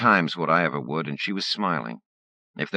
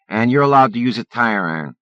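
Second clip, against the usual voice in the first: taunting bully; 7 semitones higher, 8 dB louder than usual. Acted.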